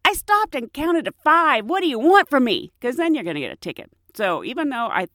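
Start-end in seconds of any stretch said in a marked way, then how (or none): 0.0-2.7 argumentative. Retold or imitated. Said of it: "You can't be argumentative".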